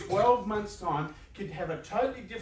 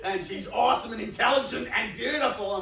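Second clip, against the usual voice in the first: mock exclamation; 5 semitones higher, 4 dB louder than usual. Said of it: "it's like".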